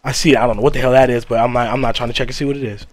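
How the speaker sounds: low hushed fearful voice; hushed scared. Real, not acted. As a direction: keep it low, scared of being found. Hiding from the ghost.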